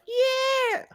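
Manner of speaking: a squeaky high yes; mom's eager yes. Retold or imitated. Mom agreeing to the acid trip in a squeaky high voice. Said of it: "my mom is like".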